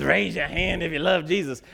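a hint of the booming preacher calling out; mock preacher call to the congregation; imitating the preacher. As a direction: lightly voice the big preacher asking for hands. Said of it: "that big sweaty preacher".

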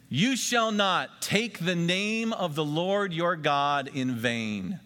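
slow, solemn reading aloud; solemn unison-style reading; scripture reading. Acted. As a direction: lead the room through the verse. Congregation reads scripture together.

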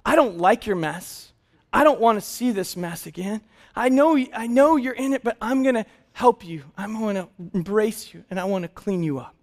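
soft and reassuring; gentle father soothing his child; tender love. Retold or imitated. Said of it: "my love for him saw him in his mess and said".

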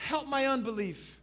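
high, loud plea led for a congregation; desperate cry. Acted. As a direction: cry out for help in prayer. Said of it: "cried out".

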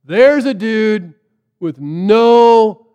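loud opening cry, then measured; calling out. Retold or imitated. Jesus greets Nathaniel walking toward him, calling out. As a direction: hail someone approaching. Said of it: "Jesus yells out to him".

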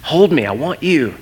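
emphatic, punched plea to be held; pleading toddler. Retold or imitated. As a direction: imitate a child begging his dad. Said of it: "He said".

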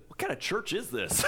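baffled caller with a Southern twang; lightly hammed-up Southern accent. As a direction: imitate a puzzled Southern lady. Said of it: "I picture this in a Southern accent".

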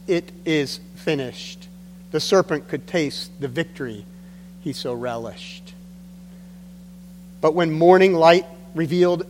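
measured reading with punched key words; poem recitation. Acted. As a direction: recite a rhymed Christmas poem, pausing between phrases. Reads his own Christmas poem aloud.

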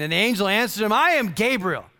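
lightly voiced angel scolding; angry angel. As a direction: angel rebuking the doubter, firm. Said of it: "This is what he says".

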